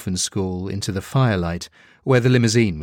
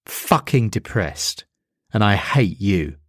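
slow, bitter spat-out reply; a mild bitter snap at the demon; the devil spits it back at Demon Six, mildly bitter. Acted. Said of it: "the devil spat in answer".

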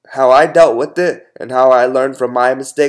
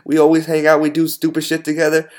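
indignant; 4 semitones higher than usual. Retold or imitated. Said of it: "And I was like".

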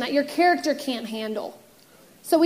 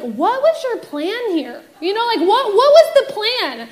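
exasperated mom; 5 semitones higher than usual. Retold or imitated. Mom questioning the stolen birds.

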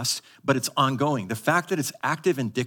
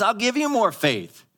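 raised, earnest voice of God; God's promise; 4 semitones higher than usual. Retold or imitated. Pastor voicing God promising more faith to believers. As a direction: promise it generously, lifting high. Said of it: "He says".

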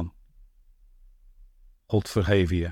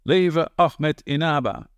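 higher, slow cheer of leven Ahmed Inaba; crowd cheering; 5 semitones higher, slower than usual. Acted. Young men cheer Ahmed in a slow, high chant. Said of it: "een orkaan van stemmen".

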